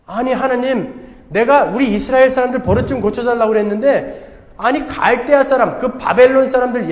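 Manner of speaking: 억울하다는 듯 하나님께 따져 묻기; 말도 안 된다는 투로 항변하기; 따지는 하박국. Acted. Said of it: "하박국이 지금 따지는 거예요". (하나님께 항변하는 하박국의 따지는 말투)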